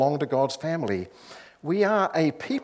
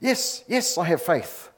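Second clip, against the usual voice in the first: high, eager cry, only mildly raised; acted frantic assent, pitched up; mock shout; 4 semitones higher than usual. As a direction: blurt it out like a desperate tourist. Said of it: "the tourist shouted".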